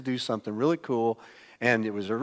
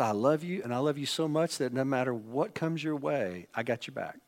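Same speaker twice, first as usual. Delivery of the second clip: tender; 3 dB quieter than usual. Pretend. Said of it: "But if he just said".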